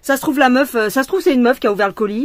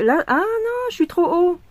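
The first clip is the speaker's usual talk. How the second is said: startled; 10 semitones higher, slower than usual. Real, not acted. Reacting to her painting mistake.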